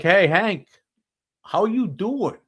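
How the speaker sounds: high-pitched mock-friendly phone hello; buddy's phone greeting.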